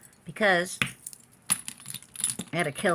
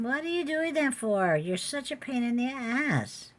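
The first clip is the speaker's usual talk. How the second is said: annoyed scolding; 8 semitones higher than usual. Real, not acted.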